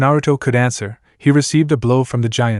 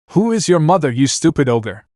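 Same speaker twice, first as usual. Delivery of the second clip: higher, scornful shout; angry shout; 4 semitones higher than usual. Acted. Naruto to the ogre, angry shout. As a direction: taunt the ogre. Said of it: "Naruto shouted".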